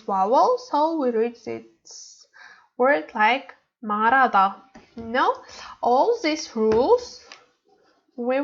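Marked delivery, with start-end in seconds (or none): 3.8-4.6 "말하다" as ma-ra-da, without the h; silent h. Shown as a demonstration. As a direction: link l to a in "말하다", dropping the h. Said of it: "read hu sound".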